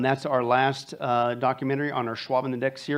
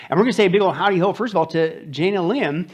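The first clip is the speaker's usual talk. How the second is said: excited hype; 4 semitones higher, 5 dB louder than usual. Real, not acted. Hyping up a Texas greeting.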